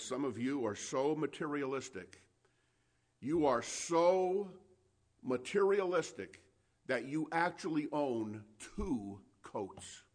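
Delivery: mildly blunt, deliberate scolding; blunt rebuke. Retold or imitated. John the Baptist scolds the materialistic crowd, mildly blunt. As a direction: spell out the rebuke slowly, dwelling on the key words. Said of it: "was very blunt with them".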